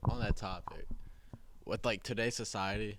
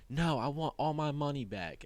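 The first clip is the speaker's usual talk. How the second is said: higher-pitched mock insistence; retold customer fit; 6 semitones higher than usual. Customer turning down the manager's offer, mock fit. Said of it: "she's throwing a fit".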